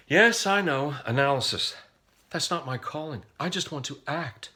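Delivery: high-pitched mock objection from a reluctant student; imitating a whiny acting student; protesting student actor.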